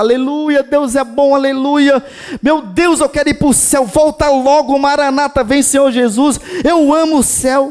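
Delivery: over-the-top fervent gushing. Imitating a churchgoer who is far too excited at the service: imitating an overexcited worshipper. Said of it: "ela está no culto hoje animada demais".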